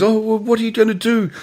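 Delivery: high-pitched, hammed-up fretting; theatrical hissy fit. Retelling Albin's tantrum over going on stage, mock hissy fit. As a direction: imitate a diva mid-tantrum. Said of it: "having another one of his hissy fits".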